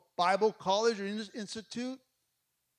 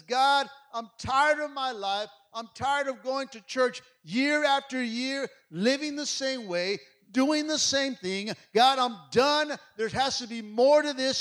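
loud, slow, pleading cry; a desperate plea thrown upward to God; 5 semitones higher, 9 dB louder, slower than usual. Acted. Jabez crying out to God in prayer, loud and slow. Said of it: "Jabez cries out".

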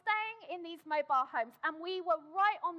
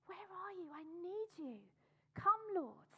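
a hushed plea, softer; a softer, longing plea to the Lord; soft pleading prayer; 3 semitones higher, 6 dB quieter than usual. Acted. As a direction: pray it quietly, longing for help. Whispered pleading prayer acted out.

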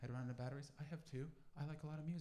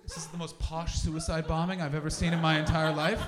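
laughing disbelief; 13 dB louder than usual. Retold or imitated. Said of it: "I was like".

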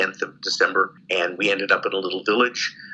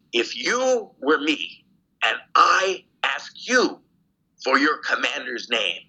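slow, higher, measured appeal; retold earnest appeal; 4 semitones higher, slower than usual. Prisoner asking the lieutenant to trade places, retold earnest appeal. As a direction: reason with him piece by piece, imitating the moment. Retold reasoning with his interrogator.

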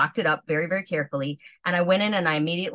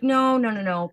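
emphatic no; 5 semitones higher than usual. Retold or imitated. Refusing dad's offer.

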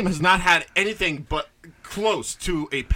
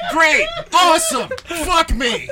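sarcastic; 8 semitones higher, 3 dB louder, slower than usual. Real, not acted. Sarcastic reaction to jinx.

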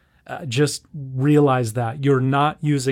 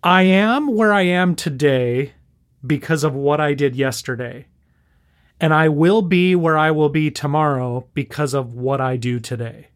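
staccato. Shown as a demonstration. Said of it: "I'll say this slowly so that you can process this".

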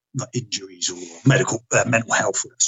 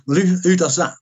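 higher-pitched, taken-aback question; retold disbelief; 7 semitones higher, 3 dB louder than usual. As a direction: question it as if thrown, retelling your shock. Retold questioning of doctor's shocking order.

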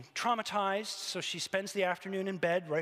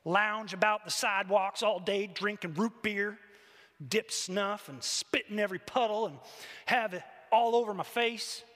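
loud, defiant acted list; growled grievance; 4 dB louder than usual. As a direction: rant on at God with a sneer in the words. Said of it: "she growled".

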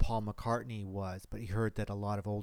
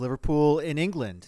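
put-on light Liverpudlian accent on Liverpool and England, a bit louder; a playful Liverpool lilt; parody Liverpool accent; 4 semitones higher, 7 dB louder than usual. Cohost joking about the trip in a parody Liverpool accent. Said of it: "that Liverpool accent that you were doing".

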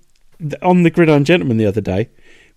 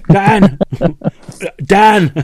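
stifled giggles; 5 semitones higher, 3 dB louder than usual. Retold or imitated. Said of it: "I'm trying not to laugh".

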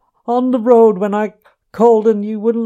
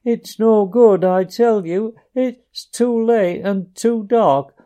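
tearful pleading; 8 semitones higher, 5 dB louder than usual. A narrator's reading.

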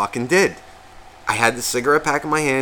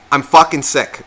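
a touch of annoyance on "fucking sick"; half-hearted grumpy snap; mildly irritated, imagined retort; 3 dB louder than usual. Retold or imitated. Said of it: "I didn't say".

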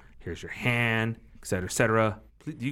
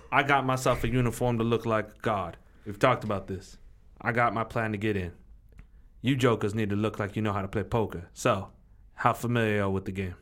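lightly voiced hustler giving orders; a hint of a tough crew leader; streetwise gambler boss; 3 semitones lower than usual. Gambler coaching his green crew, lightly bossy.

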